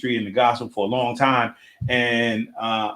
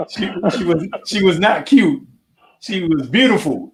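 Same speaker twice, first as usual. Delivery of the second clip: raised, playful correction; playful emphatic; 6 semitones higher than usual. Real, not acted. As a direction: insist she was beautiful, grinning.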